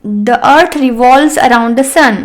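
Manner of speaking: very slow model sentence; teacher dictating slowly; slow dictation. Shown as a demonstration. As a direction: read it out slowly for learners.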